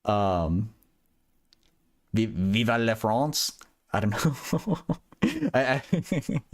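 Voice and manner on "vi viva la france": slow, unsure mock French; fake French accent. Shown as a demonstration. Streamer trying out a French phrase for chat, tentative French accent. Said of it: "fake fr-, French accent".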